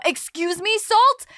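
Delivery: high, loud appalled "Salt?"; hammed-up appalled question; mock shocked. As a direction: act scandalized at the word. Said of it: "I have to go".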